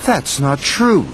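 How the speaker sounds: a mild cross denial. Acted. Thomas answering Diesel's taunt, mildly cross. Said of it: "said Thomas crossly".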